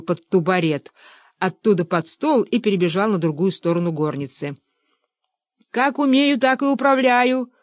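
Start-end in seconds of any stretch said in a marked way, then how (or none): 5.7-7.5 higher, tearful complaint; заплакал. A narrator's reading. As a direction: whimper it out from across the room. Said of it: "заплакал с той стороны Фёдор Кузьмич". (высокий плаксивый голос)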